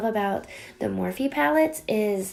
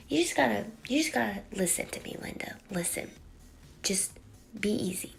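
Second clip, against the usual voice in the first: soft hushed urging; calm her down in a hush; whispered plea; 7 dB quieter, faster than usual. Acted. Whispered aside to Linda.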